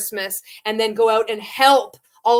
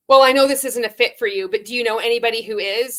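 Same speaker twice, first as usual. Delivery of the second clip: pushy sales script; 5 dB louder, faster than usual. Retold or imitated. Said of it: "we'd say something like".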